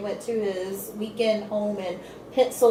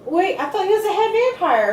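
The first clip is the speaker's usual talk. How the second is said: imitating Lisa; 9 semitones higher than usual. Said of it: "she goes".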